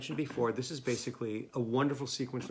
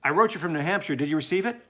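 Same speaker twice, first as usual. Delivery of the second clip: impatient, louder; 3 semitones higher, 7 dB louder, much faster than usual. Acted. Andy anxious, no reply.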